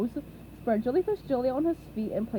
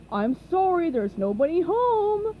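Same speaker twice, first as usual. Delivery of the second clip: calling out; 6 semitones higher, 6 dB louder than usual. A narrator's reading. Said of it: "called Patrick".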